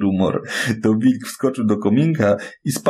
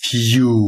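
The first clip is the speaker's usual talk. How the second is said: blowing; 2 semitones higher, 5 dB louder than usual. A narrator's reading. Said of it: "Wilczysko nadęło się jak bania".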